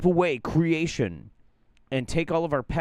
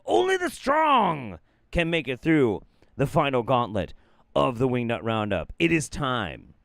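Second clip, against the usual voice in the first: epic shout. Acted. Dramatic warning before gross videos.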